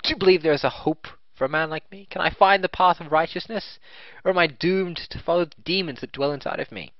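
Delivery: earnest, desperate outlaw; pleading brigand voice. Acted. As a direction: beg for redemption in character. Voices a game character.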